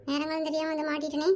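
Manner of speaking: very soft, low mutter; hushed self-reproach, pitched well down; rueful aside. Acted. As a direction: mutter it under your breath to yourself. Caught child grumbles to himself.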